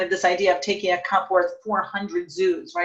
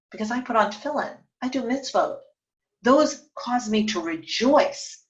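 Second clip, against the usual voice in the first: Rava's joyful reply; 3 semitones higher than usual. Retold or imitated. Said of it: "which Rava says to Abaye".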